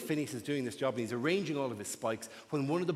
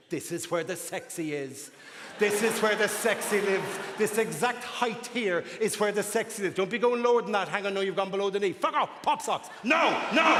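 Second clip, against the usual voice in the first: fussy stocking voice; 2 semitones higher than usual. Acted. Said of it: "An item of clothing".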